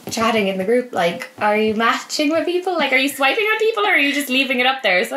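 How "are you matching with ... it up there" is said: excited question. Retold or imitated. Retold group chat question.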